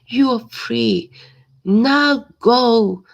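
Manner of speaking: loud, high shouted order; king shouts. Acted. The frightened king shouts at Hercules to leave. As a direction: shout him out of the palace. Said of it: "the king shouts".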